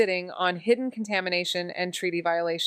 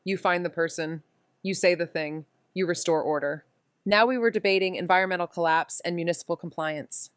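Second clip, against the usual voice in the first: story narration. A narrator's reading. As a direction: tell it like a tired detective looking back. Narrator voiceover opening scene.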